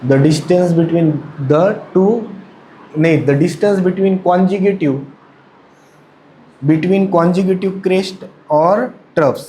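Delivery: very slow, word by word, for note-taking; dictating at a crawl; slow dictation. Shown as a demonstration. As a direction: spell it out slowly so they can write. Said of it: "लिखो".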